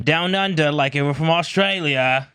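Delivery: broad mock Australian accent; bad Australian accent. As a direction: put on a poor Australian twang. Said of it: "That's your best Australian accent?".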